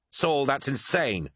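high, slow protest of disbelief; disbelieving cry. A narrator's reading. Swordsman hears of his commander's betrayal, crying out in disbelief. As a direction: cry out in shock, stretching the words. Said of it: "cried Lucius".

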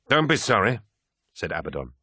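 high, firm urging; rally your comrade for battle; rousing command. Acted. Abaddon rallies Loken before battle.

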